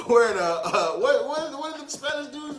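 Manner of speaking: daydream a grand ad; dreamy ad fantasy. Pretend. Host imagining himself in a liquor ad, lightly hammed.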